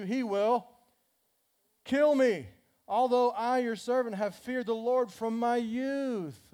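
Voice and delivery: kill me rises high and loud, then slows; emphatic reading. Acted. Climax of scripture reading.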